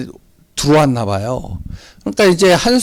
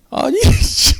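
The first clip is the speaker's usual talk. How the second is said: incredulous laugh; slower than usual. Real, not acted. Laughing at the absurd call.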